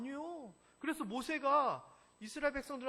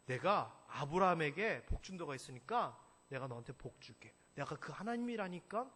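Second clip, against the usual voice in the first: lightly voiced casual God; 4 semitones lower, 8 dB louder than usual. God speaking to Isaac.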